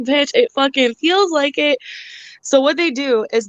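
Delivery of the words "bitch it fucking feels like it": slow, biting comeback; sarcastic retort. Retold or imitated. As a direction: drag it out with scorn, slow.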